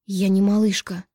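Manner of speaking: a touch of angry protest; understated angry retort; angry exclamation. A narrator's reading. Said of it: "воскликнула зло".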